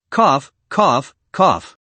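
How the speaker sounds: harsh coughing fit. A narrator's reading. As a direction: cough hard, winded from the blow. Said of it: "Li Du kept coughing".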